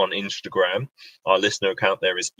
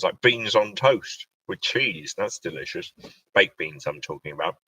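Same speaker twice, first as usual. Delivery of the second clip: talking through a mouthful; chewing while speaking; mouth full. Real, not acted. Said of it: "Sorry for speaking with my mouth full".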